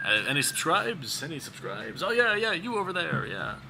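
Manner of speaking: auctioneer taking bids from crowd. Pretend. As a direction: point out a bidder. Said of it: "auction your voice in".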